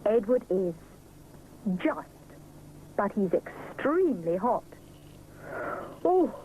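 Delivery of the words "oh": slow, grumbling little voice; mild complaint; complaining. Acted. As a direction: moan about the ordeal. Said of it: "he complains".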